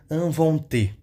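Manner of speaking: "inventé" slow, with a full closed é at the end; strong final é. Shown as a demonstration. Teacher showing a strong final e, stressed ending. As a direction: land firmly on the end of "inventé". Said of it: "som forte quando tiver E no final".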